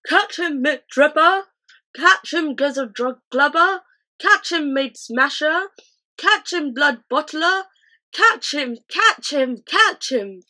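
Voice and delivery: high, loud rapid shouts; giants shouting. A narrator's reading. Giants playing ball with the BFG, loud high shouts. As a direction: hurl each name as you throw.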